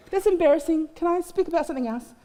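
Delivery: laughing plea. Retold or imitated. Pleading to change topic.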